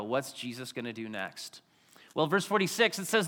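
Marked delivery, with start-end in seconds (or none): 0.0-1.6 hushed, teasing whisper of suspense; stage whisper. Acted. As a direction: lean in and whisper it like a secret. Building suspense for the show.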